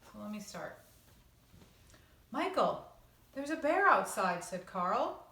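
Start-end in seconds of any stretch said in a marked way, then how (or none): 2.3-4.5 put-on higher, louder little-boy voice; a boy bursting to share news; excited boy. Young Carl calling out excitedly to his brother.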